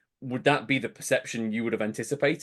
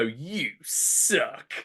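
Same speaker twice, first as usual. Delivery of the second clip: snarly announcer; 2 semitones higher than usual. Retold or imitated. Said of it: "he would come in and just go".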